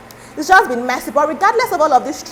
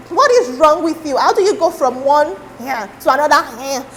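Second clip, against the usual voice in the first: mock-incredulous, higher at the start; imitated disbelief; 3 semitones higher than usual. People questioning her second choice of partner, mock disbelief. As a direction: play the baffled onlookers taking her to task. Voicing scandalised public reaction.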